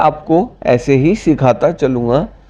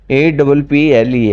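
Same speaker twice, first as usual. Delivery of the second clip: slow spelling; slower than usual. Shown as a demonstration. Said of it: "spells word letter by letter".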